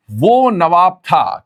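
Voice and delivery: very slow, drawn out; slow mnemonic. Shown as a demonstration. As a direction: spell it out slowly for the class. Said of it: "इसे बोलेंगे".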